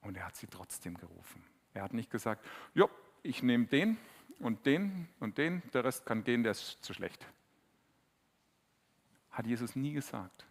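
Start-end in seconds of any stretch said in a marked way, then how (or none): 2.7-7.3 dismissive picking. Pretend. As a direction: brush the rest off like a careless captain. Jesus, wie er nicht wählt. (herablassend, ein falscher Jesus sortiert Leute aus)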